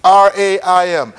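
slow letter-by-letter spelling; measured letters with small pauses between groups. Shown as a demonstration. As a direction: spell it slowly for note-takers. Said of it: "It is spelled".

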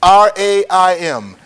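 slow letter-by-letter spelling; measured letters with small pauses between groups. Shown as a demonstration. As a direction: spell it slowly for note-takers. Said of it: "It is spelled".

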